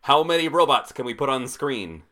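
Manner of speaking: mock a greedy action-movie producer; hammed-up eager studio boss; Hollywood producer.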